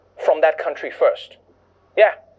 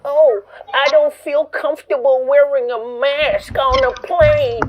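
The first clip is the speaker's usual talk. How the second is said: mock whiny passenger, higher and slow; 6 semitones higher, slower than usual. Comedian mocking a mask-refusing passenger, slow whine. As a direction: whine it like an entitled flyer.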